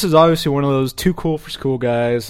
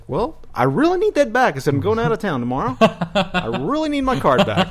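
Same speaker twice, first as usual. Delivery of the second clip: much higher, whiny pleading, slowing down; pleading customer; 8 semitones higher than usual. Retold or imitated. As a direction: beg for the card back with a laugh. Pleading with pharmacy clerk, retold.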